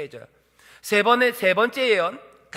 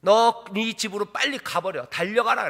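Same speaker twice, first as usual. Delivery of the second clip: raised, angry send-off; yelled dismissal; 3 semitones higher than usual. Acted. Balak ordering Balaam home, angry yelling. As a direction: order them out with force. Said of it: "소리 지르는 거야".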